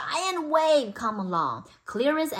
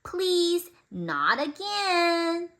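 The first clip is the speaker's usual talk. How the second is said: pleading; 6 semitones higher, much slower than usual. Acted. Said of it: "It meant".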